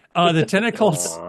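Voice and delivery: ordinary talk, nothing marked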